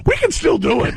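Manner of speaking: high, teasing offer; playful suggestion. Retold or imitated. Comedian tells the attendant after the safe landing, high and teasing. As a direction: pitch it up, slyly hopeful. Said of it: "and I go".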